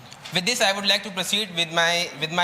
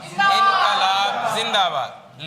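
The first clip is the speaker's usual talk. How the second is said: drawn out, louder, laughing; louder slogan; 4 semitones higher, 5 dB louder, much slower than usual. Real, not acted. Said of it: "repeated slogan louder".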